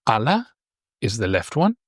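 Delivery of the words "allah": Allah said A-la, first a stressed; stress on first syllable. Shown as a demonstration. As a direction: lean on the start of Allah. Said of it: "Try to say it yourself".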